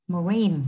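"marine" stressed on "rine"; teacher's demo of ma-RINE; second-syllable stress. Shown as a demonstration. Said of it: "trọng âm cũng rơi vào âm tiết thứ hai".

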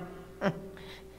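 soft, breathy little laugh; brief voiceless chuckle; short chuckle. Acted. Woman telling her story to the audience, short soft chuckle. Wry aside about the hated man.

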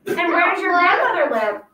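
a scheming wolf asking; sly wolf voice. Acted. Wolf questions the girl.

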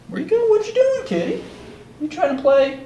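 very high cooing questions. Real, not acted. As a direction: coo playfully to a kitty. Baby-talking to the pet cat.

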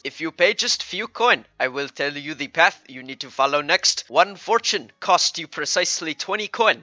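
lightly faked Indian accent; a salesman's pitch in rough Indian accent; mock Indian accent. Fortune teller quoting the price, mock Indian accent. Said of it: "those Indian scammers".

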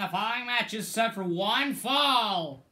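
mock ring announcer intro. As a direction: announce it to the whole arena. Imitates a wrestling ring announcer.

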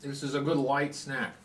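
speaking between bites; chewing while talking. Real, not acted. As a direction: mouth partly full. Seen 0: face clear; jaw and cheeks working, wrapped bar in hand throughout.

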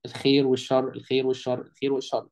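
والشر with a dark a and thick r; everyday heavy ر. Shown as a demonstration. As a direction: repeat الخير والشر casually, heavy ر. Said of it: "متعودين على كلمة شر".

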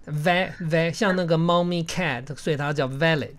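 "valid" with a short open "a" as in cat; vowel as in cat. Shown as a demonstration. Teacher correcting a student's valid, "va-" said like cat.

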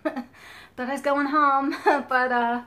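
laughs through it, loud; nervous laugh while telling it. Real, not acted. Laughing while telling viewers about nearly dying. Laughing at near-death memory.

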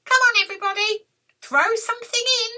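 high, cheery rallying call; grinning witch. Acted. Witch invites friends to cauldron, grinning call. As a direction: call everyone in with a grin. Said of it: "said with a grin".

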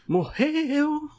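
high falsetto exclaim; sudden shocked yelp; surprised squeal. Real, not acted. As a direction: squeal it in delight. Surprised the zombie died.

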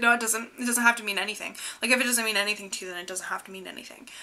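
rushed, panicky denial that fades to a whisper; flustered fast protest trailing into a whisper; gay panic. Retold or imitated. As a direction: babble it out fast, then hush it to nothing.

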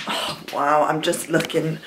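panting after a long ride; breathless, winded words; out of breath. Real, not acted. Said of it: "wow, I'm out of breath".

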